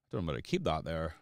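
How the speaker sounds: quick mock-posh Edinburgh lilt; mock posh accent. Streamer mimicking his own posh-sounding slip, mock Edinburgh accent. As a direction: lightly exaggerate a posh Glasgow accent. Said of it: "like, the posh part of Glasgow".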